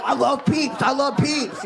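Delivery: mock addict. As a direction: ham up a desperate junkie. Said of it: "I'd be under there like".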